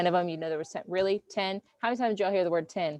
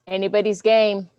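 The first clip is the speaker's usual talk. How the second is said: hype; 7 dB louder than usual. Real, not acted. Repeating hype before last question.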